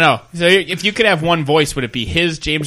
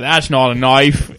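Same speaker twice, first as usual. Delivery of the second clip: Crocodile Dundee; 3 semitones lower, slower than usual. Retold or imitated. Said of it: "Was that supposed to be Crocodile Dundee".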